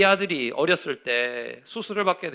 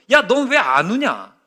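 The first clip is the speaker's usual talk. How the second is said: big sister; 5 semitones higher, 6 dB louder, slower than usual. Retold or imitated. Big sister asks brother.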